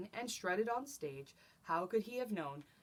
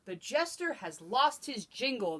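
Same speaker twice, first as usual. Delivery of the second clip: king yelling in dismay; 4 semitones higher, 5 dB louder than usual. Acted. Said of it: "the king yelled in dismay".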